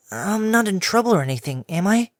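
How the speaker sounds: high, nervous filly; worried she's in trouble; young filly voice. Acted.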